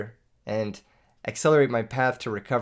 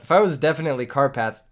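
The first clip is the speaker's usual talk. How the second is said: pitched up, louder; put-on voice; 3 semitones higher, 5 dB louder than usual. Shown as a demonstration. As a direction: try to sound like someone else. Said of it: "Okay, hold up".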